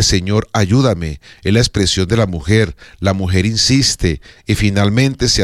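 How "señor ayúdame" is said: a humble whispered-feeling prayer, unhurried; prayerful plea. Shown as a demonstration. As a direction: pray it slowly, from the heart.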